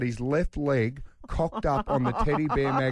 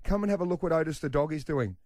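put-on higher, breathless kid calling for her dad; excited little girl; 5 semitones higher than usual. Daughter Sienna running in to fetch dad, high excited child voice. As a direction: call out like a giggling five-year-old who can't wait to show him. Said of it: "And she goes".

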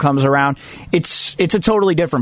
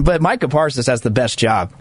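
usual speaking voice

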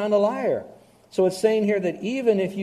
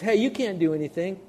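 cocky husband; 5 semitones higher than usual. Retold or imitated. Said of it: "And he says".

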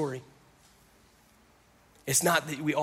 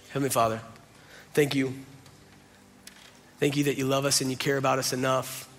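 closing prayer. Acted. Pastor praying over the congregation, earnest and unhurried. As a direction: pray for the congregation, unhurried and sincere.

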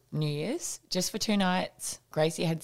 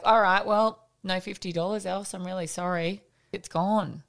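louder, firm and final; firm announcement; 3 semitones higher, 3 dB louder than usual. Retold or imitated. Mum tells the kids the money is gone. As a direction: lay down the law.

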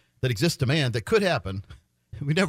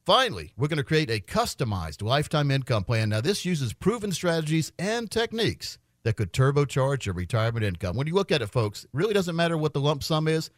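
steady radio sales pitch; infomercial. Acted. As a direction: pitch the offer like a radio host. Live on-air ad pitch.

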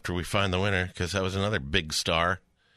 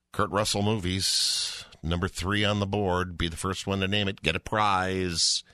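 carnival barker. Acted. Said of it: "sound like a carnival barker".

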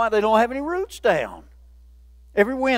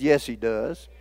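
reassuring reply; 9 semitones lower, slower than usual. Retold or imitated. Preacher answers the doubter, low reassurance. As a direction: gently insist he does. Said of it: "I said".

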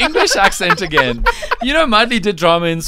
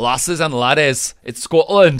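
Scottish accent; 4 dB louder than usual. Shown as a demonstration. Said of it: "do the accent with you guys".

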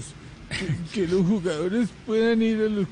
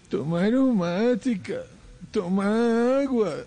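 slow; slower than usual. Retold or imitated. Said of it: "me dice".

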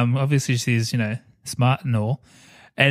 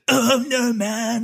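mock Hans Gruber line; pitched-up mock villain voice; lightly voiced German villain; Hans impression; 9 semitones higher, much slower than usual. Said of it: "He's the kind of talks like that".

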